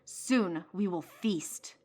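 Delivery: slow, menacing gurgle of a pirate captain; gurgling pirate voice. Acted. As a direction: drag each word out like a hungry predator. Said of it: "His gurgling voice magnified".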